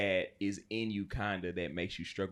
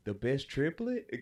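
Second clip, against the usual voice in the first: laughing question; 3 semitones higher than usual. Retold or imitated. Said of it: "I was like".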